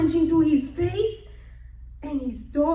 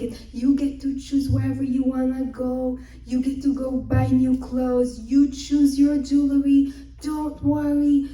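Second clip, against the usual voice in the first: louder, insistent promising; emphatic reassurance; 6 dB louder than usual. Acted. Father-in-law promising clothes and jewelry, loudly reassuring. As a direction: punch out each promise to cheer her.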